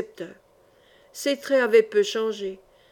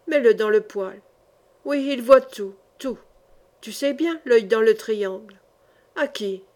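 a lightly voiced wild holy fool, menacing; ranting holy fool. Holy fool threatens the hostess, lightly voiced menacing rant. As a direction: mutter dark prophecies at the pious woman.

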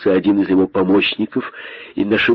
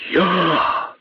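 very high, drawn-out disbelief; incredulous outrage; 10 semitones higher, much slower than usual. A narrator's reading. Great python repeats the insult, incredulous. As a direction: squawk it slowly, unable to believe it. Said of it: "не веря своим ушам".

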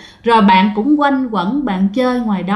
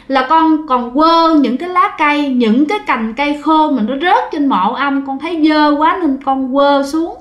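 put-on crying child; 3 semitones higher than usual. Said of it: "vừa nói vừa khóc".

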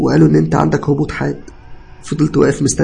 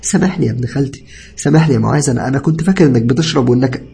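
higher, louder distressed begging; tearful pleading; 6 semitones higher, 5 dB louder than usual. A narrator's reading. Cousin begging patient's forgiveness, tearful pleading. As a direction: plead for forgiveness, acted upset. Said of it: "وهو بيعيط".

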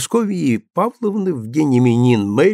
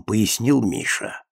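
ordinary delivery

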